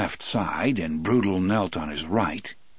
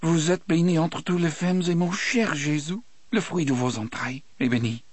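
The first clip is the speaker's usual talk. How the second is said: Cajun prayer voice; 8 semitones higher than usual. Acted. Del prays in French before execution.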